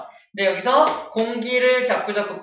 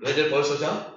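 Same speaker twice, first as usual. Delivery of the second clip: low mock dull teacher; a lightly voiced droning teacher; sleepy teacher; 4 semitones lower, 3 dB louder than usual. Shown as a demonstration. Dull teacher scolding sleepy students, low and mock-droning. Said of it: "졸린 선생님".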